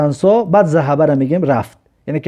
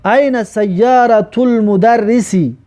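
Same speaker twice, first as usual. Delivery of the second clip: very slow, raised recitation; slow model reading; 5 semitones higher, much slower than usual. Shown as a demonstration. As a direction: draw each word out for the class. Teacher reads Arabic example sentence.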